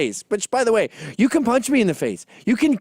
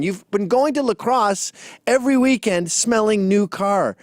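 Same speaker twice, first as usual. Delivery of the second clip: slow taunting. Retold or imitated. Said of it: "and I said".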